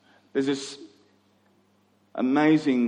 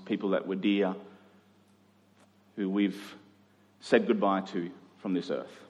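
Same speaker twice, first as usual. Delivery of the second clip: solemn quiet; 5 semitones lower, 5 dB quieter than usual. Real, not acted. Pastor recalling burying loved ones, low and hushed. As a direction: let it sink, hushed and grave. Grave sites, solemn reflection.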